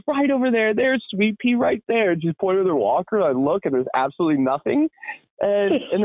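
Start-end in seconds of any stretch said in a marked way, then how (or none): 0.0-2.1 a higher lightly voiced old lady. Old lady points with her walker, lightly voiced. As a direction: point it out like a muddled grandma.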